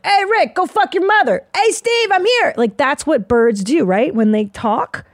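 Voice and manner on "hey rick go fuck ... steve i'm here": bird voices. Retold or imitated. Birds talking trash at sunrise, high squeaky voice. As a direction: play a cocky little bird yelling at its buddies. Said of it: "They're like".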